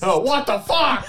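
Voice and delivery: high, laughing disbelief; laughing shocked. Real, not acted. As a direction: squeal it out through laughter.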